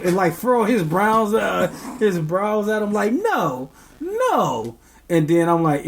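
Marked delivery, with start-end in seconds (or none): 3.1-4.8 1 mimicking baby. Baby refusing, furrowed brows.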